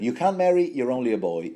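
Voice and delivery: a hint of badly faked northern accent, starting high; lightly acted mother, high at first, dubious northern accent; attempted northern accent. Podcaster voicing Catelyn's second thought, attempted northern accent. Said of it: "I'm dreadful at this".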